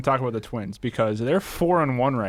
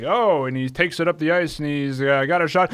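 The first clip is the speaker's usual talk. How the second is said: sportscaster play-by-play; 4 semitones higher, 3 dB louder than usual. Retold or imitated. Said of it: "the volume that you speak at when you're broadcasting".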